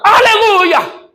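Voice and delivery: very high, slow, ringing aleluia; drawn-out hallelujah. Real, not acted. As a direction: stretch it out in praise. Pastor cheers a healing. (aleluia longo e exaltado)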